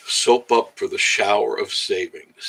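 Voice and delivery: slow, drawn-out slogan delivery; ad slogan read. Pretend. Streamer repeating his shower of savings slogan, commercial voice. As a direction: savor the sales line.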